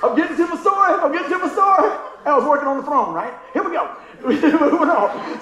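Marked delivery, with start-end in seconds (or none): 0.0-1.9 laughing through the words; giggling while trying to get on with it. Real, not acted. Pastor to the congregation, laughing. 4.1-5.4 laughing. Real, not acted. Laughing while trying to continue.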